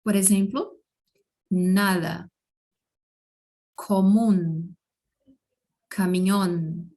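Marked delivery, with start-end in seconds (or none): 1.5-6.9 "comum" and "caminhão" said as común, camión with final N; Spanish N examples. Shown as a demonstration. Teacher giving learners N examples, careful isolated Spanish words. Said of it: "muitas palavras em espanhol terminam".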